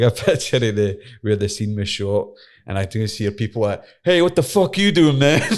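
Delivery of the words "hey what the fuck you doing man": high, loud mock challenge from a local; retold angry shout. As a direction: bark it like a gangster catching you. Locals confronting him over photo.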